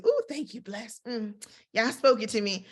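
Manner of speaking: high, airy churchy gratitude; mock gushing believer. Preacher mocking how believers gush over a promise. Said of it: "He didn't go like we do".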